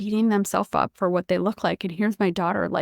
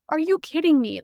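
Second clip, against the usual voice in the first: higher, incredulous Are you kidding me; disbelieving outburst; 6 semitones higher than usual. Retold or imitated. Mother told her son needs growth hormone, incredulous outburst. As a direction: retell the moment she nearly lost it, pitched up. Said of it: "I about lost my shit".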